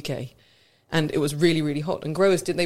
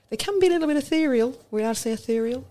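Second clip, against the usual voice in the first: mock-posh wine talk; 9 semitones higher, faster than usual. Playful arty word.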